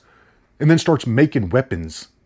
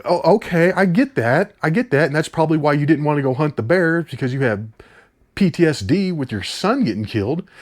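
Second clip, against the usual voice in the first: sarcastic mock understanding; 5 semitones higher than usual. Sarcastic address to the hero.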